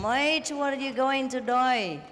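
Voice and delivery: mock Australian accent. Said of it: "Australian accent".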